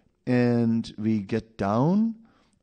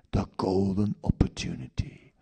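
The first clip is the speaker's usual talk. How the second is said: tempting Maya. Acted. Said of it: "And Maya knows".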